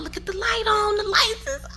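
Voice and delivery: high, breathless whisper of wonder; awed whisper. Real, not acted. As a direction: whisper in amazement at the light. Awed at garage light.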